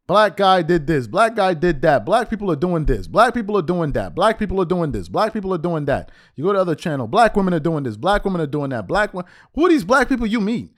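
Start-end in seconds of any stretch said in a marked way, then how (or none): 0.1-6.1 repetitive singsong recital, each item identical; mocking litany. Mocking channel's repetitive commentary. 7.1-9.2 repetitive recital, identical beat each time; mocking litany. Mocking other channel's commentary.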